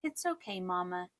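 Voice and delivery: lightly voiced child reassuring mom; young son. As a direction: voice a little boy's quick forgiveness. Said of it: "And instantly he'll go".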